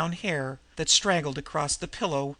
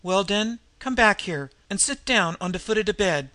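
a higher, louder street-tough order; commanding; 4 semitones higher, 4 dB louder than usual. Acted. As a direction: order her back to the bed. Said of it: "she commanded finally".

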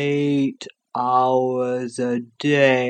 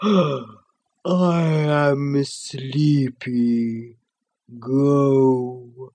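sleepy creature voice; much slower than usual. Acted. The Sloth's voice.

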